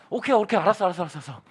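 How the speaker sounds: rapid placating repetition, dropping away; acted keeper backing down; hasty giving in.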